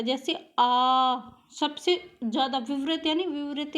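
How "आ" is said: 'आ' long and slow, mouth fully open; teacher showing the most open vowel 'आ'; open vowel demo. Shown as a demonstration. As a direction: stretch out 'आ' with the jaw dropped. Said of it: "सबसे अधिक मात्रा में खुलता है".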